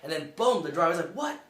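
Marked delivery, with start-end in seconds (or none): 1.1-1.4 high, loud startled outburst; shocked driver. Retold or imitated. Driver hears Vin is crying, loud shocked shout. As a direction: shout it in sudden alarm.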